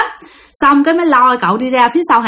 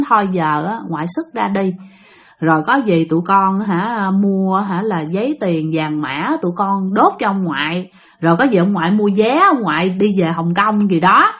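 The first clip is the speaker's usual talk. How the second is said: coaxing plea; 3 semitones lower than usual. Retold or imitated. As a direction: gently talk the spirit into leaving. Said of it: "hai người dì mới năn nỉ".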